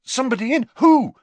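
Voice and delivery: Harry demands an answer at once; demanding. A narrator's reading. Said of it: "demanded Harry".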